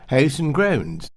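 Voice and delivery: mock Wiltshire-style posh vowels; Wiltshire accent. Shown as a demonstration. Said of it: "sounds more like Wiltshire to me".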